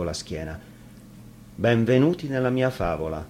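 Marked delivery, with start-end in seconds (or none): 1.5-3.2 sinister welcome. Acted. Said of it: "disse l'ometto".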